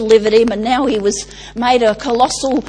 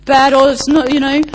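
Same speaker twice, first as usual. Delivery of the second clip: slow, mopey donkey voice, louder and higher; Eeyore voice; 3 semitones higher, 5 dB louder than usual. Retold or imitated. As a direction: sigh it out like a gloomy Eeyore. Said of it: "this is Eeyore's building a little structure".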